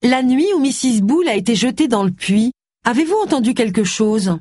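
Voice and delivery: a touch of loud, careful diction; loud and clear. Acted. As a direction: speak up so the old lady hears. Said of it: "à haute et intelligible voix".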